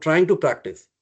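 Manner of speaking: "trying" picked out with a small lift; stress on trying. Real, not acted. Teacher repeating the correction to the students, stress on "trying". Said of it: "emphasizing the word trying".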